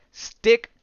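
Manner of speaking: sudden high loud yelp of the name; high squeaky name. Retold or imitated. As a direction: pitch jumps way up on Stick, loud. Name said in odd voice.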